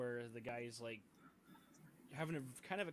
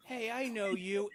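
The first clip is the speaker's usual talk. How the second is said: loud, higher, drawn-out accusing call; acted calling out; 8 semitones higher, 9 dB louder than usual. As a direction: call her out loudly, stretching the words. Game master voices gunman accosting girl.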